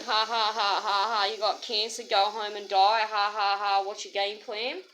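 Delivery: mean mock cackle over bad news; mocking laugh. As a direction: imitate the doctor laughing at you. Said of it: "was laughing".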